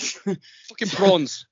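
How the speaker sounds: slow mock South African; slow South African film impression; South African accent. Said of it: "my only point of reference of South African".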